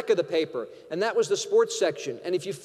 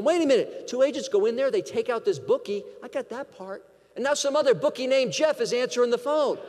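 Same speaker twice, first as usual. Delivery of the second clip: higher-pitched, retold disbelief; incredulous agent; 5 semitones higher than usual. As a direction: act out a baffled eavesdropper catching on. Wiretap agent reacts in disbelief.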